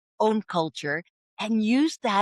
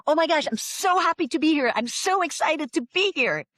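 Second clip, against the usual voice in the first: high, gushing American excitement; acted-out over-the-top delight, pitched way up; showy enthusiasm; 7 semitones higher than usual. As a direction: gush as if thrilled to be there. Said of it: "it is very important to show enthusiasm".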